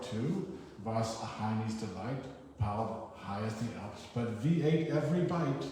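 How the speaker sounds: put-on a light German accent, slow on the first line. A reader doing a poem in a mock German accent. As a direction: read it like a German grandson remembering Ma. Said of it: "supposed to be a German accent".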